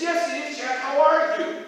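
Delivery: high bird voice. Acted. Bird greeting Jack.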